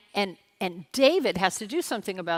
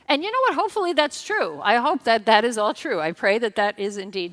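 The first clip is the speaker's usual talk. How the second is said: emphatic hope; 3 semitones higher, 7 dB louder than usual. Real, not acted. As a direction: lift it up with hope. Hopeful emphatic aside.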